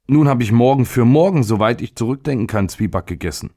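high start, sinking as it goes; boy on the verge of tears, acted mildly; near tears. A narrator's reading. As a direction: complain like a child about to cry. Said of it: "im Begriff, in Tränen auszubrechen".

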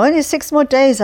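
giddy echo of the count; delighted repeat. Acted. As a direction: bubble over at the thought. Repeated with more glee.

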